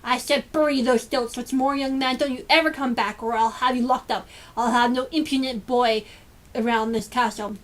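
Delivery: a cold threatening scold; harsh. Acted. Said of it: "said harshly".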